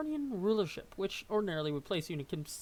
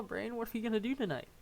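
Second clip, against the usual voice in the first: Pinky impression; 5 semitones higher, faster than usual. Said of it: "Well, Pinky".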